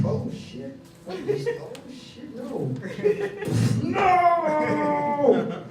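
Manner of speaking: high, panicked, laughing cries; ducking flying chairs; mock terror. Dodging thrown objects.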